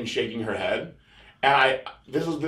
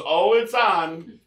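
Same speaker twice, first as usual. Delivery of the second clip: high, very slow, loaded tease; knowing tease; 8 semitones higher, much slower than usual. Retold or imitated. Cleaning lady confirms the screen is on, slow and teasing. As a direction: stretch it out, all-knowing.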